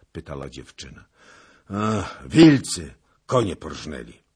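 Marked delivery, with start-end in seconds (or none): 1.7-4.3 głośne, wzburzone zawołanie; wzburzony okrzyk. A narrator's reading. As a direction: wykrzycz złą nowinę. Zagłoba zgłasza stratę koni. (Zagłoba odpowiada dziewczynie, głośno i wzburzony)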